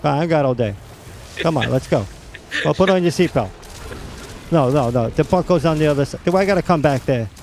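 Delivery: New York cabbie. Retold or imitated. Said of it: "That's what I should be doing. Driving a cab".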